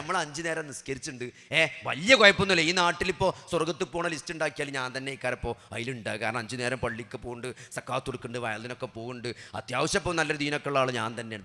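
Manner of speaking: preacher mimics a smug believer listing his good deeds, rattled off low; mock smugness. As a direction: poke fun at our own complacency. Mocking the complacent believer's thinking.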